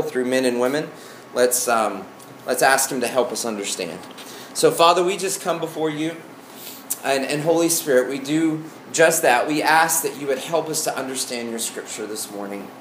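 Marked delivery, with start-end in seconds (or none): 4.5-12.7 prayer. Acted. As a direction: pray it sincerely and gently. Leads a prayer.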